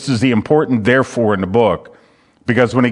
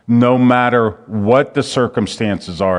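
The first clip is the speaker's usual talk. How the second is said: "No matter what" said deliberately for emphasis; emphatic stress. Real, not acted. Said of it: "I emphasize that".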